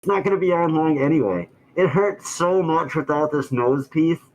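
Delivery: muffled through a face mask. Real, not acted. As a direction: talk from behind a mask. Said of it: "I'm not doing it muffled".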